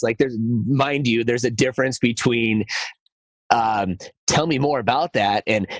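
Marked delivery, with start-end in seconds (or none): 4.3-5.4 curious, open ask; inquisitive voice. Shown as a demonstration. Coach contrasting kind and harsh questions, inquisitive. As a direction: invite them to share more, gently. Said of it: "inquisitive voice instead of a shaming voice".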